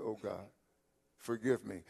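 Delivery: low, soft plea for forgiveness; hushed repentant plea. Acted. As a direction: voice a humbled prayer, low and soft. Voices a repentant person praying.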